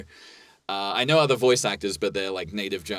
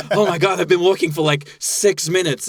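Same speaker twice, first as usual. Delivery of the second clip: mock out of breath; 4 semitones higher than usual. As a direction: gasp first, then hammed-up exhaustion. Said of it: "it's not like I'm like".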